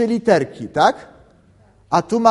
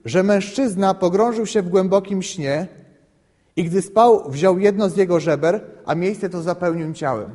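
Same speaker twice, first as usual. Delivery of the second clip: scripture reading. Acted. Reads Genesis aloud.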